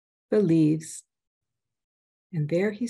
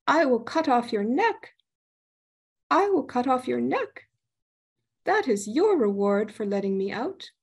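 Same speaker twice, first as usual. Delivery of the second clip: higher threatening spirit voice; menacing spirit; 4 semitones higher than usual. Acted. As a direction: loom over him, threatening. Spirit threatens to behead him.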